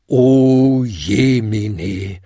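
drawn-out shocked chorus; horrified bells. A narrator's reading. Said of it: "läuteten die anderen Glocken entsetzt". (entsetzt, sehr langsam und lauter)

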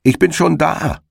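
high triumphant call across the field. A narrator's reading. Hedgehog calls to the startled hare, high and smug. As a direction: sing it out smugly from the finish. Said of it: "rief ihm der Herr Igel entgegen".

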